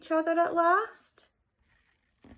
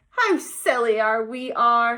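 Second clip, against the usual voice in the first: proclaiming; 7 dB louder than usual. Acted. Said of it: "he proclaimed".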